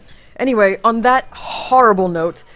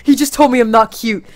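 indignant yell; 2 semitones higher, 8 dB louder than usual. Real, not acted. Indignant complaint to friend.

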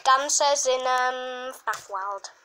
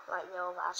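mock sad; 8 semitones lower, 11 dB quieter than usual. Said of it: "So sad".

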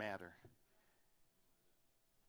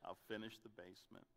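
mock husband promise; 4 semitones lower, 13 dB quieter than usual. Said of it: "all the stories of".

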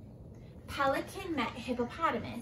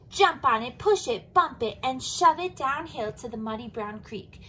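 eager plan; 6 dB louder than usual. Acted. Elephant's battle plan.

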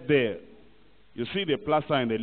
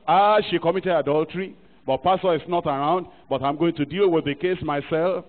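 indignant accuser; 3 semitones higher, 4 dB louder than usual. Acted. Acting out self-appointed judge of adultery.

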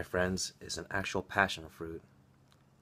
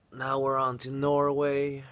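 louder, slower, upbeat announcement; excited announcement; 6 semitones higher, 6 dB louder than usual. Real, not acted. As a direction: announce the next trip with excitement. Announcing next trip.

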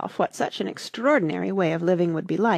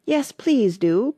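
high, slow, drawn-out plea; pleading; 6 semitones higher, 5 dB louder, slower than usual. A narrator's reading. Alice begs the Dormouse for a story, pleading. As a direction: beg with a long, raised "please". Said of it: "pleaded Alice".

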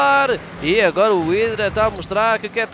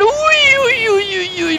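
excited near-miss cries; 11 semitones higher, 5 dB louder, slower than usual. Real, not acted. Near miss in front of goal.

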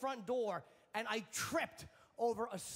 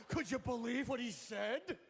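outraged public. Retold or imitated.

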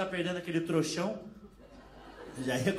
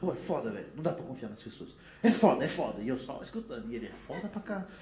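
angry stranger; 5 semitones lower than usual. Retold or imitated. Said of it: "ele tava".

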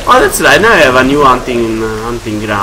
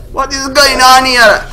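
high, loud bewildered cry; alarmed; 13 semitones higher, 4 dB louder than usual. Real, not acted. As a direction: shout it in disbelief. Chaos of mutants around him.

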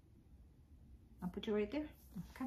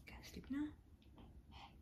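soft unvoiced whisper; 2 semitones higher, 12 dB quieter than usual. Real, not acted. Owner whispering to the dog at bedtime. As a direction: hush it to the puppy.

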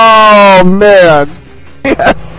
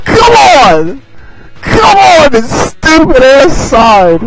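hit hard crying out; 3 semitones higher than usual. Real, not acted. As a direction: shout at the game in frustration. Game frustration.

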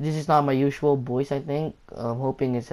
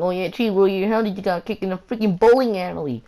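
lightly mimicked viewer, higher voice; imagined viewer asking; 5 semitones higher than usual. Vlogger voicing the viewers' question, mock asking. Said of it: "you might be asking".

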